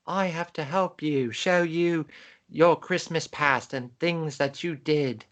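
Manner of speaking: put-on a rough, wobbly stab at a British accent; mock British ghost, badly done; horrible British accent. Podcaster imitating the ghost's British accent for her co-host. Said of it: "That was my horrible British accent".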